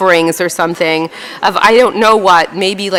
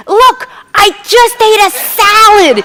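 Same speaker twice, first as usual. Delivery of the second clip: high, slow, louder chirpy saleswoman; eager saleswoman; 12 semitones higher, 5 dB louder, slower than usual. Retold or imitated. Saleswoman pointing to her mouth for a customer, chirpy and proud. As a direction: proudly show off the lipstick. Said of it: "She goes".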